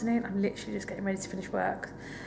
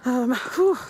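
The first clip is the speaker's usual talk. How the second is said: gasping in icy wind; 4 semitones higher, 7 dB louder than usual. Real, not acted. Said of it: "Try and warm up".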